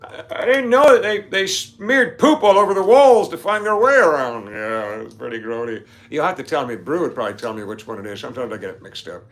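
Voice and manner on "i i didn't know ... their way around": mock gasp of disbelief, high and loud; high, loud astonished retelling; shocked quote. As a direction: act out the stunned friend, slowed down. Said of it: "and they're like".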